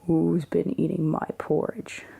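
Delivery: a hint of a grumpy father bear, still whispered; lightly voiced Papa Bear, gruff but hushed; big grumpy Papa Bear. Papa Bear grumbling about his porridge, a mild whispered growl. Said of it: "cried Papa Bear in a big, grumpy voice".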